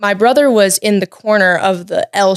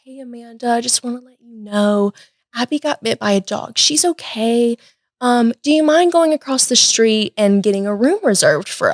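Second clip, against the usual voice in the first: super calm; 3 semitones higher than usual. Retold or imitated. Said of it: "called her super calm".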